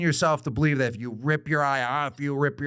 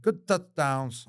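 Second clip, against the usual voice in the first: bad British accent; 3 semitones higher, much slower than usual. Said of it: "Definitely don't have a London accent".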